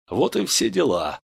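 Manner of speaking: ordinary delivery, nothing marked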